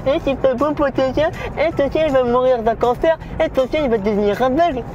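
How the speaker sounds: high whiny mock commenter. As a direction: parody an annoying commenter. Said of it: "de me dire en commentaire".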